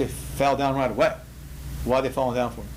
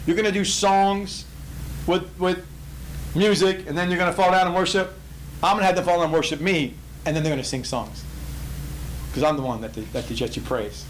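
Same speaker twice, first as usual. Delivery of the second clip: mock taunting. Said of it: "Do you see the mockery that God said".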